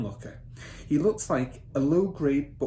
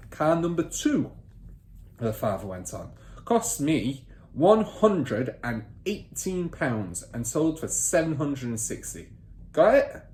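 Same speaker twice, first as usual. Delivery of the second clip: higher, louder command to write; bossy father; 4 semitones higher, 4 dB louder, slower than usual. Acted. Father ordering son to take down figures, bossy. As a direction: snap the order at the boy.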